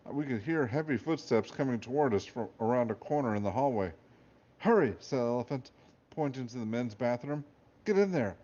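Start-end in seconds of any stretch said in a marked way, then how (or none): 4.6-5.0 urgent loud whisper-call. A narrator's reading. Elephant urges. 7.8-8.4 urgent command. A narrator's reading. Elephant urges.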